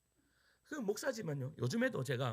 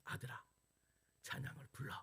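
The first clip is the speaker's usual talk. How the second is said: soft, hushed voice of God; God's gentle voice; 3 semitones lower, 10 dB quieter than usual. Retold or imitated. Preacher quoting God's soft words to him. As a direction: speak it softly, like a voice inside the heart. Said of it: "이렇게 말씀하세요".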